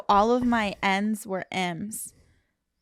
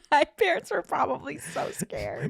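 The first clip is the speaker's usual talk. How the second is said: whispering; 4 semitones higher, 5 dB quieter than usual. Real, not acted. Laughing aside about childhood stutter.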